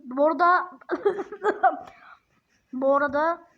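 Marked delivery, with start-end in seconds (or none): 2.7-3.5 whispered aside. Real, not acted.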